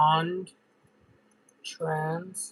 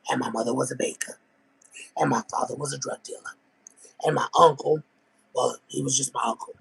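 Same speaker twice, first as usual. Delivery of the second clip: imitation of her talk; 2 semitones lower, faster than usual. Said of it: "talks like this".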